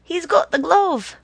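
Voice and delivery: high, loud warning yell. A narrator's reading. Tito yelling as he runs alongside, loud yell. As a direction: yell it out to the whole gang. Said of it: "He yelled".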